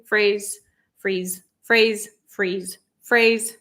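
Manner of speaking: phrase and freeze alternated briskly, ay against ee; quick contrast. Shown as a demonstration. Teacher rattling phrase and freeze to contrast vowels. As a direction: snap between phrase and freeze. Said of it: "when you say it quickly".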